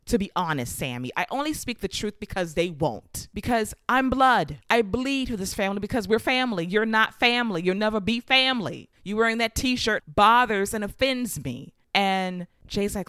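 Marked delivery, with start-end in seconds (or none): 0.1-11.7 heated rant. Retold or imitated. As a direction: build up the anger line by line. Jey's heated speech continues.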